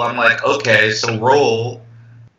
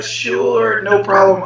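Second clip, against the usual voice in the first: high, sugary fake politeness; mock-nice agreement, pitched high; overly polite; 7 semitones higher, slower than usual. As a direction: sound sweet and agreeable, a bit too much. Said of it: "I'll be all polite and nice".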